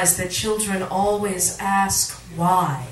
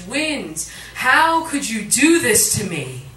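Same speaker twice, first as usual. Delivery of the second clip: a louder, pleading cry to the wind; anguished cry; 3 semitones higher, 5 dB louder, slower than usual. Acted. Sand dune crying out to the wind, anguished and louder. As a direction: call out the hurt of being abandoned. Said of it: "the sand dune cried out in anguish".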